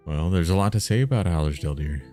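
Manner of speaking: measured story-reading delivery; storybook narration; game master reading. Acted. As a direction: read the villager's lore out evenly, phrase by phrase. Game master reads dialogue and description.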